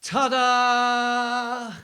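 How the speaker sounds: high, loud showman ta-da; magician's ta-da. Retold or imitated. Magician revealing his trick to Reginald, showman flourish. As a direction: present it like a magician. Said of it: "he goes".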